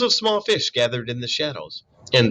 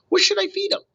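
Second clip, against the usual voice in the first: robot voice; faster than usual. Acted. Robot asks.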